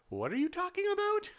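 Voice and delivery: high, baffled squeak. Pretend. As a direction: sound utterly lost and confused. Confused viewer voiced.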